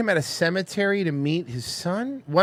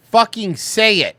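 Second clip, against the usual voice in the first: mock demand; 6 semitones higher, slower than usual. Demanding love back.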